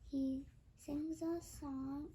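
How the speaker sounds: ordinary delivery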